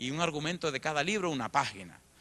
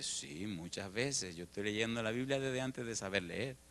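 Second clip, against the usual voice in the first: calm, modest answer; 4 semitones lower, 7 dB quieter than usual. Retold or imitated. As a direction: answer gently, unbothered. Boy answering calmly.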